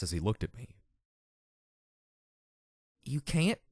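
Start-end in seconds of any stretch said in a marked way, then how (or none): 3.0-3.6 crestfallen question; disappointed. A narrator's reading. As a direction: ask with letdown. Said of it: "in disappointment".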